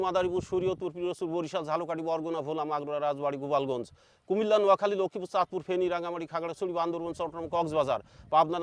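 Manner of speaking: rapid-fire recitation. Shown as a demonstration. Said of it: "তিরিশ second এবং তার কমও হবে".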